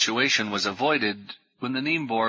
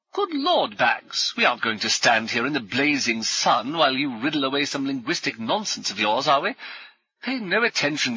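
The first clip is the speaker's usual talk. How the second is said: brisk, higher, jovial military gent; hearty ex-officer; 4 semitones higher than usual. Acted. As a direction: bluff old soldier greeting new friends. Brummond brushes off professor.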